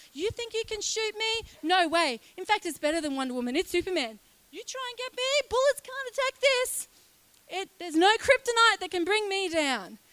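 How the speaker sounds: high, cocky taunting invincible hero; superhero bravado. Acted. Peace as Superman taunts would-be attackers, high and cocky. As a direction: dare them to try, hammed-up.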